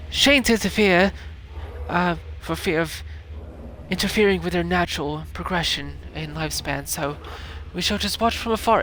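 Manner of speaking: hushed nature narrator; nature documentary. Pretend. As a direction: narrate like a wildlife film. Continues wildlife narration.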